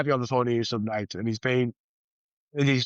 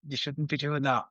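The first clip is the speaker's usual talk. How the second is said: mock scolding; 5 dB quieter than usual. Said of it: "you kind of wanna go".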